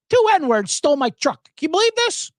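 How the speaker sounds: high-pitched yelled movie quote; mock yell. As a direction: imitate an outraged man yelling. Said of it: "he yells the N-word".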